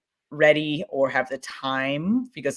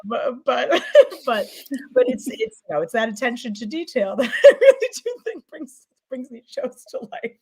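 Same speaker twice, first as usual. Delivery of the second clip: laughing; 9 semitones higher, 4 dB louder than usual. Real, not acted. Laughing through praise.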